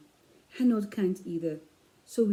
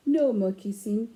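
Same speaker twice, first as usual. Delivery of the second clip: put-on firm, louder mom telling the kids off; stern mom; 5 dB louder than usual. Mom scolding the children to bed, firmly. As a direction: lay down the law like a tired mother. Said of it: "says Mom".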